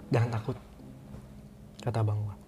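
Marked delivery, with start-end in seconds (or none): 0.1-0.6 soft, hushed reassuring voice; calm reassurance. Retold or imitated. Older brother calming his frightened sibling, softly reassuring. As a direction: settle someone's nerves quietly.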